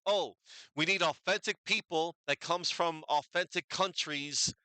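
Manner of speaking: lightly voiced sarcastic imitation; mock earnest quote. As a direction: parody the outraged crowd, a little up in pitch. Mocking what people say nowadays.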